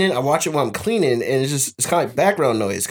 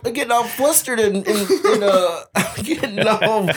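laughing imitation; 5 semitones higher than usual. Imitating Tyson flustered.

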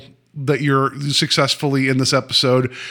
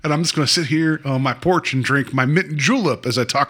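put-on playful Southern porch-sitter accent; light, joking Southern accent; mock Southern accent. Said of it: "with a Southern accent".

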